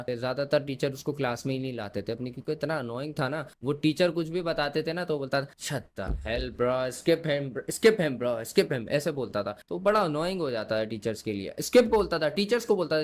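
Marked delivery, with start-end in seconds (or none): 5.5-8.9 mimicking his affected English accent; mock a classmate showing off an English accent; imitated English-accent catchphrase, lightly hammed-up; put-on English accent. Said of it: "हमेशा जो है English accent झाड़ता रहता था".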